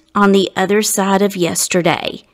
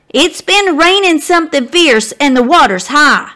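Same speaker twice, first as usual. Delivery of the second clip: mild motherly warning; 6 semitones higher, 3 dB louder than usual. Acted. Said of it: "warns Abe's mama".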